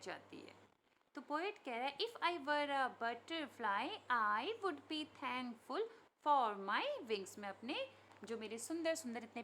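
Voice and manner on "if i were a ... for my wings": very slow, measured poem reading; poem recitation. Acted. Teacher repeating the poet's line for pupils, slow recitation. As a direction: draw out each word of the verse.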